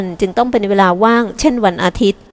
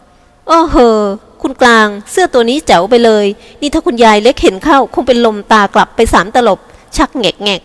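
exclaiming with a laugh. Acted. Jin teasing her sister about a daring top, laughing exclamation. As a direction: gasp at the outfit and tease her. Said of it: "อุทานทัก พลางหัวเราะ".

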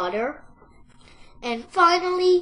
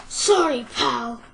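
mock sorry; 7 dB louder than usual. Fox taunting caught piglet.

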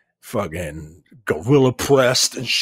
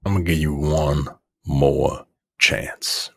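low mock God voice; 8 semitones lower than usual. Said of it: "God is like".

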